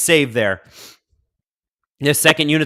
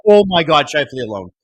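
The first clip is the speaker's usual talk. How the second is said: alarmed outburst; 4 dB louder than usual. Real, not acted. Live reaction breaking off talk.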